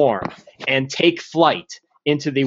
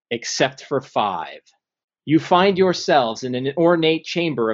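game master narration. Acted. DM sets the scene.

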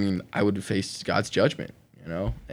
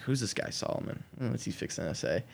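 whispered thought; 2 semitones higher, 9 dB quieter than usual. Retold or imitated. Inner thought reading Ecclesiastes.

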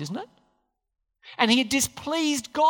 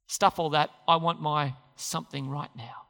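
dismissive demand; 7 semitones lower, 4 dB quieter than usual. Acted. Voicing gratification's selfish demand.

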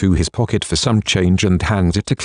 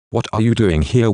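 mocking question; 3 semitones higher than usual. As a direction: mimic a nosy, unwelcoming asker. Narrator mimics annoying askers.

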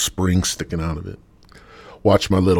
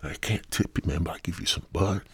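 hushed offer; 6 dB quieter than usual. Retold or imitated. Retold woman offering weed instead of a tip, hushed. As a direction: murmur it like a secret deal. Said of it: "And she's like".

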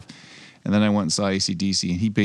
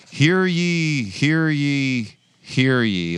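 booming court crier call, falling each time; bailiff; 7 semitones higher, much slower than usual. Acted. Court crier opening mock trial.

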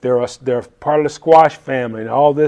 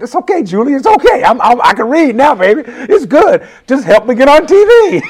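eager reassurance; 10 semitones higher, 6 dB louder than usual. Retold or imitated. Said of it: "And I'm thinking".

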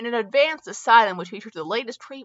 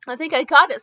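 sobbing; 6 semitones higher, 6 dB louder than usual. Acted. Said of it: "sobbed Herbert".

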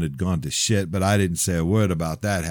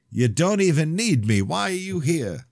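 high, raised challenge; confrontational son; 11 semitones higher than usual. Acted. Son confronting his father, raised voice. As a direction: demand it, voice lifted.

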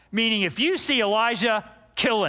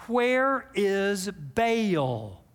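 slow meaning; much slower than usual. Shown as a demonstration. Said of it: "Jezebel's name actually means".

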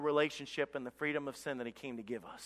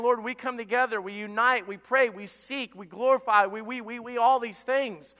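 high, raised voice of a praying crowd; imitating a congregation crying out, stretching the verbs; pleading prayer; 5 semitones higher, 6 dB louder than usual. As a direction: plead to God in a preacher's fervent cadence. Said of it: "they're pleading and saying".

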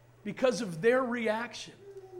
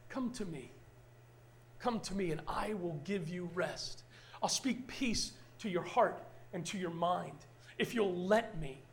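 tender voice of God; 7 dB quieter than usual. Retold or imitated. Pastor voicing Jesus inviting the weary, soft and tender. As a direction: speak it softly like a comforting promise. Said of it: "He says".

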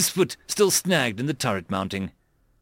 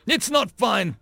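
displeased; 9 semitones higher, slower than usual. A narrator's reading. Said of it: "Mayers frowned".

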